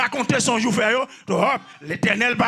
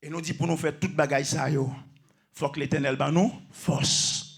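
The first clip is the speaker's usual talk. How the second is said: low, soft, restrained preaching; subdued statement; 8 semitones lower, 6 dB quieter than usual. Real, not acted. Preacher saying we need strength from the Eternal, subdued and low. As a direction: say it quietly, almost privately. First, subdued take of the line.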